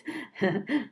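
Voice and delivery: light amused chuckle; a brief pirate chuckle; small chuckle. Acted. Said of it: "with a chuckle".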